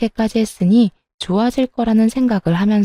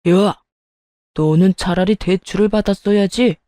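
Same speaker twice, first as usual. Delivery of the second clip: angry father-in-law. Acted. Father-in-law scolds son for borrowing from in-laws, acted angry outburst. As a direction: berate the son in a put-on older man's voice. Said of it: "시부가 화를 버럭 냈어요".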